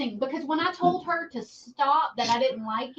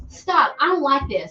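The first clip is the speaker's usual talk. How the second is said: upset, near tears; 3 semitones higher, 6 dB louder than usual. Retold or imitated. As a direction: re-enact a mother getting upset at a prank. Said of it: "so pissed off that I started crying".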